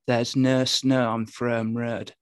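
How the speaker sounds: put-on slow, drawn-out Hull accent vowels. Asked to say something Hullish, a slow Hull accent. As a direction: quote the Hull weather forecast in a broad Hull accent. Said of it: "so say something Hullish".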